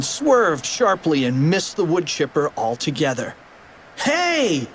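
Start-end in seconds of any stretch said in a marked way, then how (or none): 4.0-4.7 high-pitched startled call; squeaky exclamation; surprised cry. Acted. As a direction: pop it out high like a cartoon kid. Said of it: "cried Fluffy".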